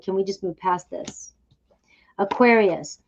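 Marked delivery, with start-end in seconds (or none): 0.0-1.3 a hushed, pleading whisper. Pretend. Tarot reader voicing a Capricorn's hidden wish to move on, whispered. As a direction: breathe it like a secret plea.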